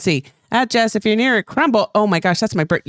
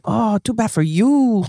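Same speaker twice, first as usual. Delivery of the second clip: slow, drawn-out mock Asian accent; much slower than usual. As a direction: ham up a fake Asian accent, slowly. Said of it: "an Asian accent".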